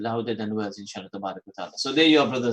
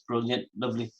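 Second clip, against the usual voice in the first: a hint of posh English accent, a bit softer; 5 dB quieter than usual. Host reading a caller's message in a faint posh English accent. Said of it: "I'm trying to do a posh accent".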